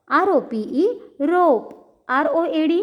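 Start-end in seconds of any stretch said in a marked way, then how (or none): 1.2-1.7 "rope" with a long O; long vowel. Shown as a demonstration. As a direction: hold the O in "rope". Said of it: "we will see now long vowel sound". ("rope" में लंबा ओ)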